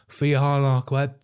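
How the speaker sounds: mock a flashy brother-in-law, slowly; slow showy imitation. To a friend, mimicking a show-off relative, slow and smug. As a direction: drag out three hundred quid, slow and boastful. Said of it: "'Cause he kinda talks like that".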